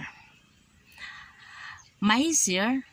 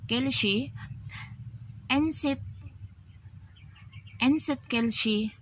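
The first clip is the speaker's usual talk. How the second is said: demo line, higher pitch; 6 semitones higher, slower than usual. Shown as a demonstration. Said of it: "magsagsabi mo nga".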